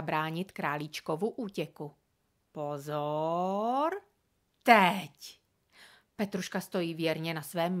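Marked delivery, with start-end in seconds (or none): 2.5-5.4 urgent call. A narrator's reading. Borek calls to sister, trap.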